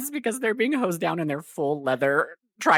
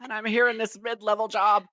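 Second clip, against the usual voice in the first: pitched-up mock griping; mock indignation; 5 semitones higher than usual. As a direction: imitate a sore, overqualified employee. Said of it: "That's why he's so mad".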